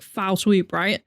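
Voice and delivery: ordinary talk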